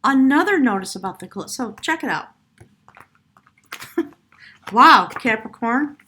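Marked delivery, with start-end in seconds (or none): 4.7-6.0 amazed wow. Real, not acted. Reader amazed by the cards.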